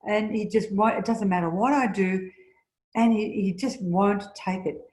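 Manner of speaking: a hint of exasperation in the voice of Meg; lightly voiced, fed-up grumbling; frustrated complaint. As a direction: Meg venting about her husband, mildly exasperated. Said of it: "can you hear the frustration?".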